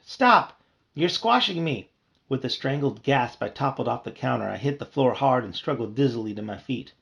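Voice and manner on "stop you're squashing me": high, loud panicked stop; panicked scream. Acted. Bee screaming as he is squashed, panicked. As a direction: scream while being squashed. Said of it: "I screamed".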